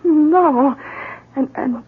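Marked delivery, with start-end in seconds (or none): 0.0-0.8 breathless unvoiced gasp of horror; shocked whisper. Wife hearing of the murder on the phone, a horrified whisper. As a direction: barely get the words out.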